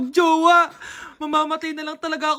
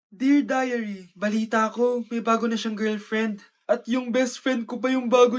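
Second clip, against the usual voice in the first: a touch of heartbreak, lower and softer; hurt and low; 5 semitones lower, 5 dB quieter than usual. Acted. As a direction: read it like it stings. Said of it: "Medyo masakit to". (mahinang malungkot na pagbasa)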